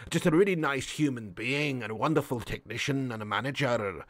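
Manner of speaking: low, soft football manager impression; Brendan Rodgers. Manager praising himself and his players, low soft Brendan Rodgers. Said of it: "I forgot about Brendan Rodgers".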